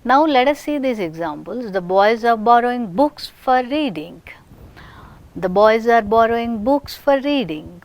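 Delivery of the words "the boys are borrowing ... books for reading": tonic accent on "books", lighter stress on "reading". Shown as a demonstration. Teacher reads example sentence, tonic accent on books. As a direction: make "books" the nucleus of the sentence. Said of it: "Here we have made books as our nucleus".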